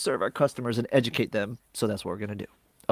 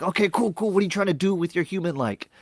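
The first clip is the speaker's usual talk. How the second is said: higher, agreeable mock rep voice; chipper agent; 6 semitones higher than usual. Agent asking a caller their goal, chipper. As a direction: breezily humor the caller.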